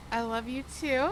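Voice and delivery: teary laugh on the words; laughing through tears. Retold or imitated. Answering the proposal on the beach, laughing while tearing up. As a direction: laugh and cry at once. Surprise proposal, she's moved.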